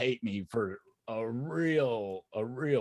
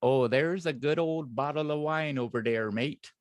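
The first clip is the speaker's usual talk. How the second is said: put-on English accent for a chat request; hammed-up English accent, tossed off as easy; 3 semitones higher than usual. Shown as a demonstration. Co-host showing off for the chat, put-on English accent. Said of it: a request to hear the co-host's English accent.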